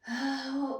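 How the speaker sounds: audible sigh before explaining; sigh, gathering thoughts. Acted. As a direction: let out a breath to begin.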